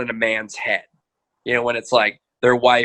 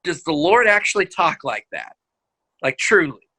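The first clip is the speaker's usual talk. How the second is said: raised pitch, mock-puzzled challenge; pointed incredulous questioning; 5 semitones higher than usual. Counselor challenging an upset husband, incredulous. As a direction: question it as if it were absurd. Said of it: "look at them and go".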